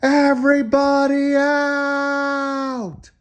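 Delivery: high, slow drawn-out shout; boy finally yelling at the crowd, angry. A narrator's reading. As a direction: roar it to clear the room. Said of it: "Jonathan got angry and yelled".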